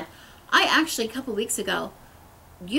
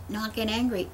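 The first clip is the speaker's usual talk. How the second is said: usual speaking voice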